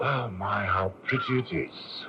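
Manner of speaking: soft, airy aside to change the subject; quiet feigned admiration. Acted. Caught spy softly admiring the view to dodge the constable. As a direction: murmur it like an innocent tourist.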